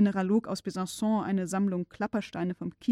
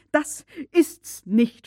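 furious shout, louder and higher; 5 semitones higher, 7 dB louder, much slower than usual. A narrator's reading. Uncle failing to decode the parchment, furious shout. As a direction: bellow it in frustration. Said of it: "schrie mein Oheim".

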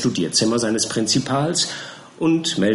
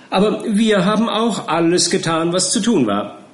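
chuckling; 8 semitones higher, 3 dB louder than usual. Acted. Perker boasting with a laugh.

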